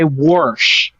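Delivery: "warsh" with an r put in before sh; Western Missouri pronunciation. Shown as a demonstration. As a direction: say "warsh" for wash. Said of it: "somebody's from Western Missouri".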